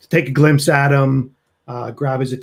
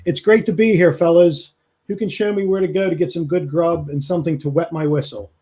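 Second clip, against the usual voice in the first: mildly booming, higher-pitched hail; 4 semitones higher than usual. Acted. Ruth greets the fellas on arrival, booming. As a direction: call it out like a big man greeting the crowd. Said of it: "in a real booming voice".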